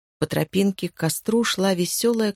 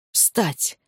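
command to himself. Acted. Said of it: "командовал он себе".

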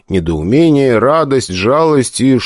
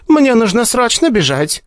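flustered nurse. A narrator's reading. Nurse voiced, high.

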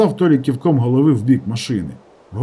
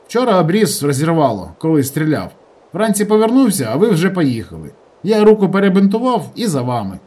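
a touch higher, lively village lad; brisk rural fellow explaining himself; light sketch of a rustic young man; lightly voiced village guy; 6 semitones higher, 3 dB louder than usual. Tolik voiced by narrator.

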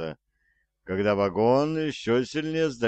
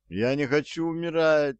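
higher, pleading cry; panicked cry; 7 semitones higher than usual. A narrator's reading. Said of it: "закричал Артур".

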